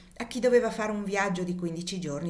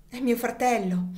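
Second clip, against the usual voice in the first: higher, louder cry of revelation; exclaiming; 4 semitones higher, 4 dB louder than usual. Acted. Lady in tears revealing her brother, exclaiming. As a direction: burst out with the secret. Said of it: "esclamò".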